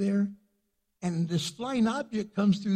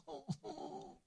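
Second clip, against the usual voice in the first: soft sigh; 12 semitones higher, 20 dB quieter than usual. Retold or imitated. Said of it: "she kinda went like".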